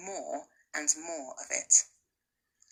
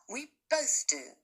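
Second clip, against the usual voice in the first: strong, determined; 5 semitones higher than usual. Acted. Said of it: "her voice strong, determined".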